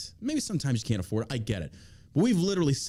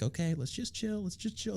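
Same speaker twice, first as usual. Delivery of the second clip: Josh calming things; 8 semitones higher, 6 dB quieter than usual. Retold or imitated. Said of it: "And Josh, like, Josh, like".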